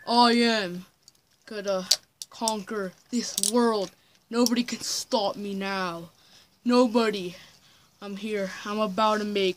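soft, understated evil boast. Pretend. Villain alone in evil lab plots conquest, quiet boast.

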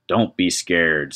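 slow, eerie talking skull; drawn-out ghostly skull voice. Acted. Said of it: "said the skull".

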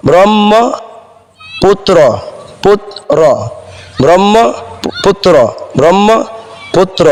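ব্রহ্মপুত্র drawn out slowly as brommoputro; syllable by syllable, ব্রহ্মপুত্র with a double m; slow teacher's demo of ব্রহ্মপুত্র, brommo-putro; model pronunciation. Shown as a demonstration. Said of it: "এটা আপনি কীভাবে উচ্চারণ করবেন?".

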